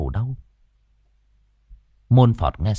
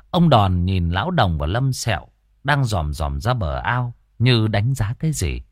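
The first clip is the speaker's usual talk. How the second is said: normal talking voice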